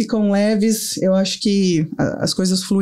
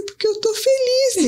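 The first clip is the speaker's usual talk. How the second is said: higher, slow, teary-voiced; tearful reply. Mother crying in bed tells son she's happy, tearful and slow. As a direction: answer through happy tears, slowly. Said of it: "eu comecei a chorar".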